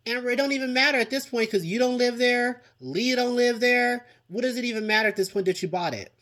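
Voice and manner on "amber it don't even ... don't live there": heated. Real, not acted. Heated advice to Amber.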